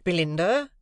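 remonstrating. A narrator's reading. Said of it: "remonstrated Mister Pocket".

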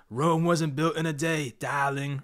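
a light hint of Gettleman's New England accent on darling; imitating Gettleman's accent. Fan mocking the Giants GM in a mild New England accent. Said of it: "But in Gettleman's accent".

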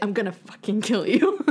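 retold threat through a laugh; laughing mock threat. Boss reacting to the joke, laughing mock threat. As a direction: let the threat dissolve into laughter. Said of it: "she's like".

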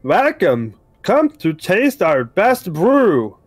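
a cheery machine voice; robot voice. Acted. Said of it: "you hear a robotic voice".

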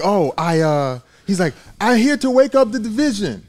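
lightly imitating a sleepy fighter with halting English; mock his sluggish, broken-English callout; sleepy fighter impression, lightly done; mock half-asleep fighter. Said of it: "he sounds like he's half asleep".

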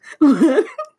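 a loud burst of laughter up high. Real, not acted. Laughs at funny clip.

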